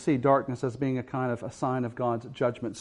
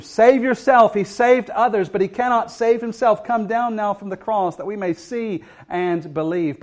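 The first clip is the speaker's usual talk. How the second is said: much higher, loud mocking shout; jeering taunt; 8 semitones higher, 7 dB louder than usual. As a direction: hurl the taunt up at the cross. Crowd taunting Jesus on cross.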